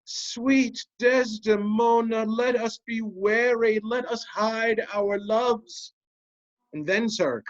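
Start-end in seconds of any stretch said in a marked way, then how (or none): 0.0-5.9 sleep talker. Retold or imitated. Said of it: "In sleep I heard him say".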